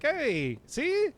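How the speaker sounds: retold hopeful boast, high on "see"; imitating eager self-justification. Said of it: "it's just like".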